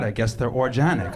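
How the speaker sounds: "organic" with a soft G, "or-ZHAN-ic". Retold or imitated. Clerk echoing the customer's soft G. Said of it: "my own ethnic pronunciation".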